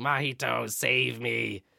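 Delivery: raspy, unworldly, inhuman creature voice. Retelling a scene with Mahito and the heron, raspy unworldly heron voice. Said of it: "really raspy, like unreal, unworldly type voice".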